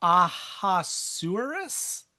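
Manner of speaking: "Ahasuerus" said slowly and haltingly, each syllable unsure; "Ahasuerus" spelled out slowly like an unfamiliar name; careful try at a name. Real, not acted. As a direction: sound out "Ahasuerus" carefully, bracing to get it wrong. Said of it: "I'm gonna say it wrong".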